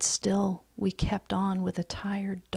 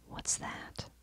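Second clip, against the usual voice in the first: hushed, breathless whisper, much softer; 11 dB quieter than usual. Acted. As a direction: whisper it as if afraid to be heard. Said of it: "he whispered".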